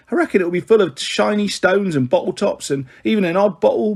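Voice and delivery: a lightly voiced, fond, gossipy mother rattling on; teasing her son as a warm-hearted mum, quick and bright; chatty cockney mother. Mrs Chubb's voice held.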